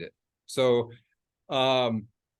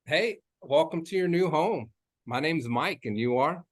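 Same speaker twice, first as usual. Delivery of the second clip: welcoming greeting; 3 semitones higher than usual. Shown as a demonstration. Realtor greeting buyers at the open house, welcoming. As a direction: greet them like an air hug. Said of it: "like you're giving them an air hug".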